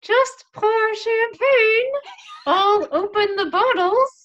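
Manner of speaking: high, slow, shouted order; stressed command. Retold or imitated. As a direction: yell it through clenched stress. Ordering volunteers amid chaos.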